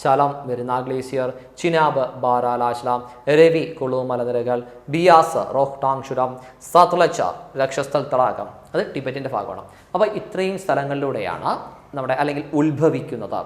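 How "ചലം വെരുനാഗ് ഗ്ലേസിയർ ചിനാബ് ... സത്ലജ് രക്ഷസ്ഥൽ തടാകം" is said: slow, spaced-out list for memorising; teacher's slow recitation for rote learning; slow recap drill. Shown as a demonstration. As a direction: lay each pair out slowly so students can repeat. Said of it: "ഒന്നുകൂടെ ശ്രദ്ധിച്ചോടാം".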